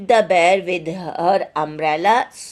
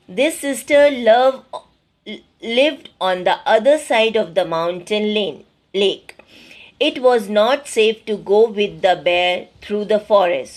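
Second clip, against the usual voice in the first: deliberate, emphatic classroom reading; measured textbook narration; story read-aloud; 4 dB louder than usual. A narrator's reading. Reads the story text aloud.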